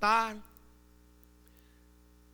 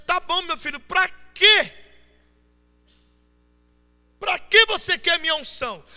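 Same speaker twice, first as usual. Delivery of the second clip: voicing God; 9 semitones higher, 8 dB louder than usual. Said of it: "Aí Deus tá dizendo".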